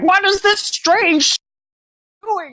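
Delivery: very high, squawky, crow-like caw. Voicing a crow who flaps his arms in alarm: squawking crow voice. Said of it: "just starts squawking, like".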